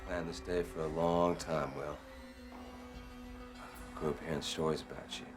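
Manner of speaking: deep, measured avenger's speech; low menace. Acted. Avenger addresses victim after long wait.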